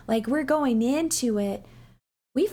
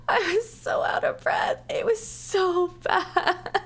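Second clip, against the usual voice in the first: high laughing whisper with no voice; breathless whisper; 8 semitones higher than usual. Real, not acted. Vlogger recalling the exhausting climb, whispering. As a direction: whisper it, still giggling.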